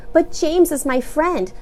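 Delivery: put-on slow, insistent child; pleading child. A narrator's reading. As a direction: insist sadly.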